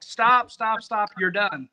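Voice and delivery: imitating an organizer yelling stop, loud at first; retold yell. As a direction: call out a halt, retelling it. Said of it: "when he was yelled at me".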